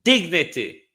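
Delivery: "Die" punched loud, then falling "in dignity"; loud mock quote of the PM. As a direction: hurl the PM's words back with contempt. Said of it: "said the Prime Minister".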